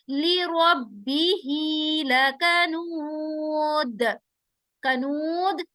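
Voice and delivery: slow chanted verse with a bounce at the end; Quran recitation. Shown as a demonstration. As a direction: recite slowly, let the final द bounce. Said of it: "दाल पर जब हम आवाज को रोक रहे हैं".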